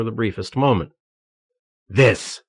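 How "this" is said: cry. Acted. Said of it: "he cried".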